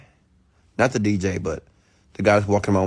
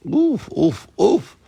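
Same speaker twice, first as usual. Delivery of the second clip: high-pitched oofs in a row; pleased oof; 12 semitones higher, 4 dB louder, much slower than usual. Real, not acted. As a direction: let out little high oofs. Admiring own slimmer body.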